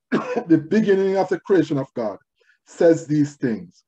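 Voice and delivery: measured, emphatic proclamation in phrases; scripture reading. Acted. Preacher reading the letter to Laodicea, solemnly declaimed. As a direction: read it out firmly, pausing between phrases.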